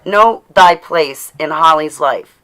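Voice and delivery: defiant scolding. Acted. Telling off a mother figure.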